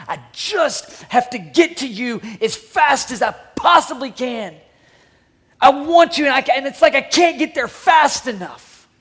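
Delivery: an eager father's voice straining with urgency; urgent longing. Retold or imitated. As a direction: call out as you race toward him. Father running to his son.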